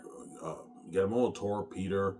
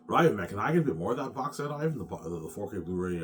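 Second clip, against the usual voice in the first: wheedling Peter; 4 semitones higher, 6 dB louder than usual. Retold or imitated. Acting Peter asking for more.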